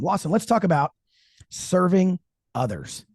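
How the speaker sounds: smooth announcer read; radio voice. Real, not acted. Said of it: "you went into your radio voice".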